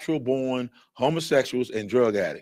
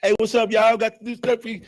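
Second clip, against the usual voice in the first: album drop promo; 9 semitones higher, 3 dB louder than usual. Retold or imitated. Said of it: "do a drop for his album".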